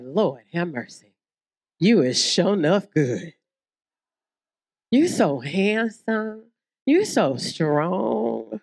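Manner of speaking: low, slow swooning praise; adoring wife. Acted. Wife swooning low and slow over her husband. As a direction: drawl out the compliments lovingly.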